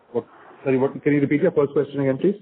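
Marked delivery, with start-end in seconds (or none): none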